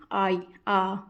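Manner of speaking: आई drawn out, then its opening sound आ alone; sounding out the vowel. Shown as a demonstration. Teacher sounds out आई to show its opening vowel आ. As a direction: isolate the आ at the start of आई. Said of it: "आई का sound क्या आ रहा है".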